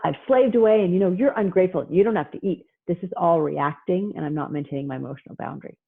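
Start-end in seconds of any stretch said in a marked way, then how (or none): 0.0-2.7 mock resentful parent.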